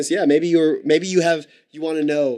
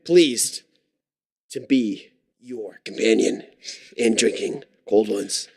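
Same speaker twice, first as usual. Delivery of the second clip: slow, measured announcer delivery; radio host sign-on; slower than usual. Pretend. Host tells caller where they broadcast from, slow announcer patter. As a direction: draw it out like a station announcer.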